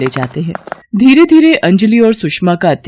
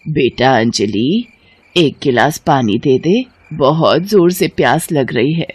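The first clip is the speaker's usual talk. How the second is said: lightly voiced thirsty mother-in-law; calling from her bed; 2 semitones lower than usual. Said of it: "Anjali को आवाज लगाती है".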